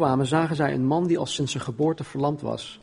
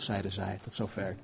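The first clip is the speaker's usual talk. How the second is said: ordinary delivery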